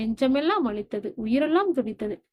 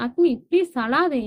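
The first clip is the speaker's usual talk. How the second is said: louder, higher pleading; earnest raised plea; 4 semitones higher, 5 dB louder than usual. Acted. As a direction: beg her to stop crying. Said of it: "கெஞ்சியவனை".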